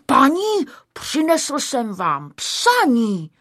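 high opening, drawn-out delivery; clear little voice. A narrator's reading. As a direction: announce it in a bright little voice. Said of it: "oznámil jasným hláskem". (jasný zvučný hlásek)

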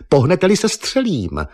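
high, loud threat as he lunges; sharp threat. A narrator's reading. Eva warns the painter at gunpoint, high and loud.

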